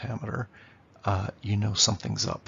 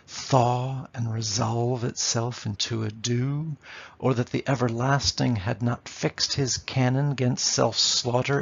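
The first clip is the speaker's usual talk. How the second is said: verse recitation. Shown as a demonstration. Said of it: "reads Hamlet verse".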